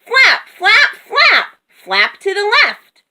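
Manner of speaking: high, urgent yelled commands; loud, high-pitched urging; frantic yelling. A narrator's reading. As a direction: yell steering orders in mid-flight. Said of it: "Moo yelled".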